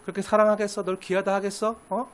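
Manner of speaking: mock them quietly, with contempt; Satan taunting. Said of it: "사단이 주는 속임수에 빠져서". (낮고 조용하게 비웃는 사탄)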